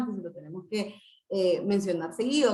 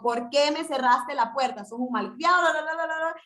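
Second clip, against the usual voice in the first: higher, mock-angry scolding; mock scolding parent; 5 semitones higher than usual. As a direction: play a parent losing her temper. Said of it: "le digo". (madre regañando con enojo fingido)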